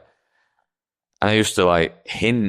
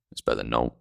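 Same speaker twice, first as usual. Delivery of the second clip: put-on flat deadpan child; 8 semitones lower, 8 dB quieter, faster than usual. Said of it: "And I went".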